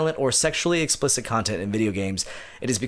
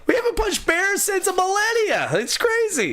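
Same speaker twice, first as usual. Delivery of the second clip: put-on Canadian accent. Continuing Canadian bit.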